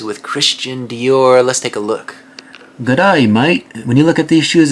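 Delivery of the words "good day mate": put-on Aussie greeting; Australian accent. Host jokingly greets viewers for shoes from Australia, Australian accent. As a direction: imitate a broad Australian accent. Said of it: "we did our Australian accent".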